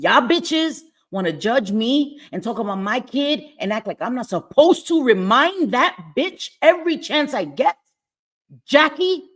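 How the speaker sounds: loud, rising confrontation; shouting her name in real anger; angry yelling. Real, not acted. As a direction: call her out at full volume. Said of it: "I'm sorry I got a little animated".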